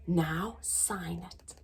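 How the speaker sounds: soft, slow, gentle instruction; quiet teacherly nudge; quietly. Acted. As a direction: say it softly and kindly. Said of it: "quietly said".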